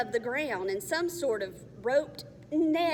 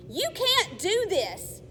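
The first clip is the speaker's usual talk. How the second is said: higher, loud, slow protest; yelled protest; 10 semitones higher, 5 dB louder, slower than usual. Acted. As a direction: yell in defiance. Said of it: "Alex yelled".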